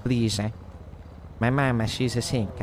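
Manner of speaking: mob-movie pleading in broken English; pleading petitioner. Acted. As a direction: act out begging the don for a favor. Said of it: "And you ask".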